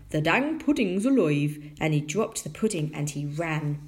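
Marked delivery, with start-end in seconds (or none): 0.1-1.6 loud rustic tinker voice; astonished tinker. A narrator's reading. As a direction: blurt it out as a flabbergasted tinker. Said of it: "said the tinker".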